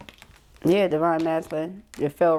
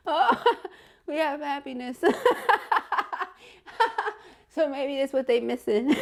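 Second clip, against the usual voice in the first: higher voice, laughter bubbling; laughing; 7 semitones higher than usual. Real, not acted. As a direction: talk through fading giggles. Laughter fading.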